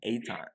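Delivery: "Eitan" said ay-TAHN; copied pronunciation. Shown as a demonstration. Echoing the pronunciation for co-hosts, "Eitan" as ay-TAHN. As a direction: repeat "Eitan" with a long AH, ay-TAHN. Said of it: "Y'all like how I did that?".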